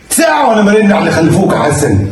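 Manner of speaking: exasperated yell at his son; scolding shout. Acted. Father scolding absent son.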